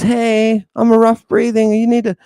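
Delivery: high-pitched talking Greek symbol; voiced breathing mark. A rough breathing mark addressing students, high character voice. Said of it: "It says".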